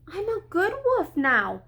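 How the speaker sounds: sweet-talking wolf, mildly put on. A narrator's reading. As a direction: plead sweetly to be let in. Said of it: "said Big Bad Wolf sweetly".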